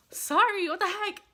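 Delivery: a sudden whispered sorry as emotion wells up; choked whisper. Real, not acted. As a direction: breathe it out, fighting tears. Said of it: "I'm getting emotional".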